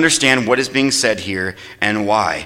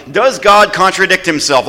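raised, ringing question to the church; emphatic question; 4 semitones higher, 4 dB louder than usual. Real, not acted. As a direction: throw the question out to the crowd. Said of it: "I want you all to answer loudly".

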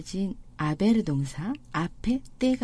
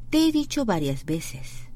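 very slow, word by word; slow demo; much slower than usual. Shown as a demonstration. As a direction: spell it out slowly for learners.

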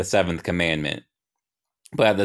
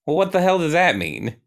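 much higher, puzzled challenge; quizzical; 10 semitones higher than usual. Acted. Young Ryan questions a muddled God, quizzical and high. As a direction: ask it in high-pitched bafflement. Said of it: "shooting him a quizzical look".

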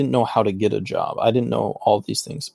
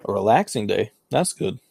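chewing while talking; mouth full. Real, not acted. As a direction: speak through a bite of chocolate. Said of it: "I'm eating some chocolate".

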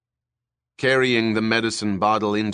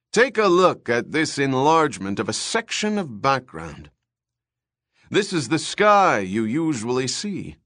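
higher, brighter showman announcer; TV host voice; 4 semitones higher, 4 dB louder than usual. Acted. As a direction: pitch it like a TV host. TV host Buster Friendly speaking.

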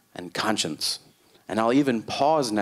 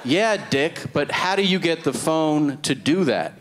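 mock challenge; 5 semitones higher than usual. Acted argument with cousin.

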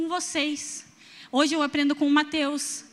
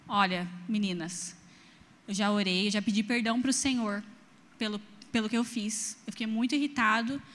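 soft, low, remorseful voice; a quiet, lightly voiced sorry father; gentle apology; 3 semitones lower, 5 dB quieter than usual. Father apologizing softly to his daughters, low gentle voice.

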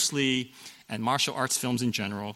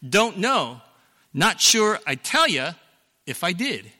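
higher, louder scared father delivering the real line; actual movie line; 4 semitones higher, 4 dB louder than usual. Shown as a demonstration. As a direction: give the correct line with a bit more punch. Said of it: "The actual quote is".

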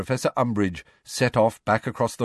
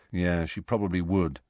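dull. Acted. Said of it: "said Harry dully".

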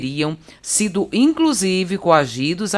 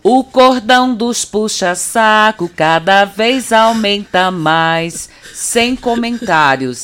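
sarcastic teasing; 6 semitones higher, 5 dB louder, much slower than usual. Acted. Mocking the flattery on air.

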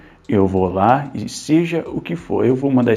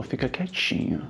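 hushed whisper; 3 semitones higher, 7 dB quieter than usual. Acted. Builder hushing, hand over mouth.

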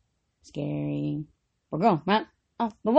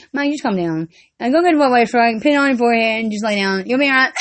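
calm reassurance; 3 semitones lower, 4 dB louder than usual. Retold or imitated. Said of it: "just like I took care of Mike".

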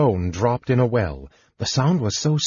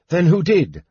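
higher, insistent question; sharp challenge; 8 semitones higher, 4 dB louder than usual. A narrator's reading. Knight challenges the spectre, sharp demand. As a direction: demand an answer impatiently.

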